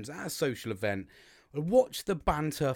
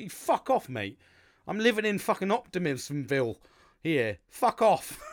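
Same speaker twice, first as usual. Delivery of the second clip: mock shout; 3 semitones higher, 6 dB louder than usual. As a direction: bark it at the guy asking for the job.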